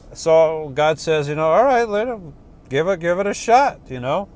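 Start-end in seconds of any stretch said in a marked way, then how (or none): 1.5-3.8 God voice. Acted. God answers the atheist.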